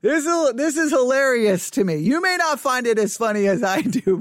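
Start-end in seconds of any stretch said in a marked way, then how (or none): 0.0-2.0 suppressed giggle in the voice; holding back laughter; trying not to laugh. Real, not acted. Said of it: "I'm trying not to laugh".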